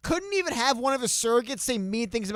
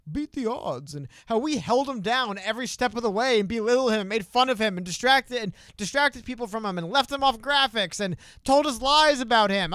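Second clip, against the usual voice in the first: a mocking, rising media voice; 4 semitones higher, 4 dB louder than usual. Mocking the media's new praise of Yang, building louder. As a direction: sneer at the fake praise, getting louder. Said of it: "they're gonna be speaking of Andrew Yang as".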